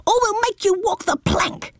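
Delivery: put-on high brave child shout; little captain yell. A narrator's reading. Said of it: "yelled Baby Bumble".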